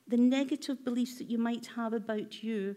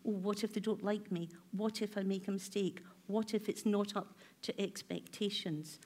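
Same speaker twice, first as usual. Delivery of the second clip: nervous inner voice; 3 semitones lower, 6 dB quieter than usual. Retold or imitated. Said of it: "my nervousness coming today, go".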